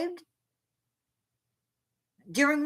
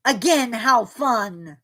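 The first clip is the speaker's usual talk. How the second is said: sarcastic; 2 semitones lower, slower than usual. Real, not acted. Sarcastic about storms again.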